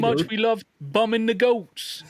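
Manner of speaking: put-on West Country accent. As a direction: ham up a Westcountry yokel. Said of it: "West Country".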